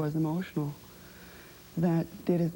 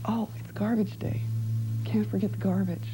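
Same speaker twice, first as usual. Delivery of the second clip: chirpy reminder; 5 semitones higher than usual. Retold or imitated. Acts out her routine weekly reminder.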